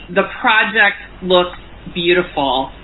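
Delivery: slow, casual imitation of the man; unhurried offhand retelling, taking time over each word. Stranger to his friend on the phone, retold slowly and casually. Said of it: "very casually as he's looking at me".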